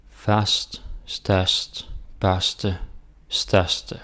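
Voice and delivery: "størst" and "største" with open Danish ø before r; teacher reading "Fast, størst, børste, største" as a demo; Danish word drill. Shown as a demonstration. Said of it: "here we got Ø S T".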